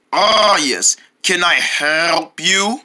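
drawn-out clerk greeting; slow shopkeeper voice. Acted. Store clerk greeting the boys, slow and drawn out. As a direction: stretch every word like a sleepy clerk. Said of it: "talking like that makes me wanna gag".

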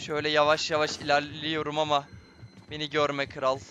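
low, soft sneaking voice; hushed. Real, not acted. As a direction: keep it down so he can't hear. Doktordan gizlice kaçıyor. (gizlenirken kısık, alçak ses)

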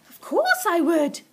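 loud, high, emphatic yes; crying out. A narrator's reading. Missus Silver answering Mister Hoppy, loud eager cry. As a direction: exclaim it slowly and loudly. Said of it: "Missus Silver cried".

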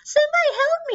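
mock sobbing baby plea; crying baby voice. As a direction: wail like a ghost child. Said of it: "crying baby noises".

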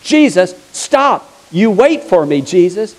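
mock yell, insistent and punched; acted yelling. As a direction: call after someone who keeps walking. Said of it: "the Syrophoenician woman is yelling at him".

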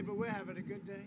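usual speaking voice

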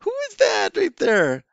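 put-on high, slow, sing-song questions to a small child; teacher voice for kids. Shown as a demonstration. Online teacher asking a young student, sing-song and high. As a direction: ask it like a playful teacher to a toddler. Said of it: "I say".

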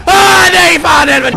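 loud frantic cursing; panicked swearing. Real, not acted. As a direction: curse in alarm.

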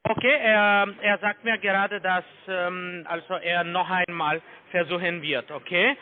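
the same caller lightly playing his own boss; posing as the manager. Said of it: "ich gehe zu meine Manager".

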